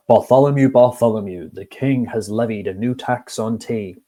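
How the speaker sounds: a hint of a pompous pigeon, loud on the first "Bartholomew". Pigeon announcing the new tea tax to the baker. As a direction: call out "Bartholomew, Bartholomew" as the self-important pigeon. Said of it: "that pigeon has a deep voice".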